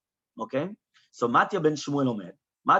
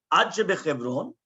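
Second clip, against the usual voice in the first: "Ad Shebechevron" rising at the end; questioning rise through "Ad Shebechevron"; continuing the question; 2 semitones higher than usual. Acted. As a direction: finish the question with a lift on "Shebechevron". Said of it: "the question was only half of a question".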